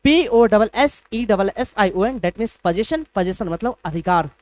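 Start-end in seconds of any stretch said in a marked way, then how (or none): 0.0-2.2 slow spelling out. Shown as a demonstration. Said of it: "पागल मत बनो".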